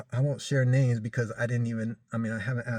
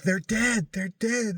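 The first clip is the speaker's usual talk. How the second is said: shocked; 8 semitones higher, slower than usual. Retold or imitated. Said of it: "is like".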